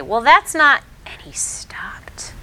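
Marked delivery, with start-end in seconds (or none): 0.0-0.8 put-on child starting to object. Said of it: "he started to say".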